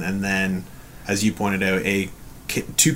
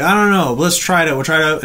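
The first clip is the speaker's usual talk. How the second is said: eager suggestion; 5 semitones higher, 4 dB louder, faster than usual. Retold or imitated. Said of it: "it's like".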